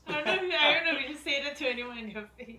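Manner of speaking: loud, high indignant rant; loudly outraged at the rudeness. Real, not acted. Indignant about rude line.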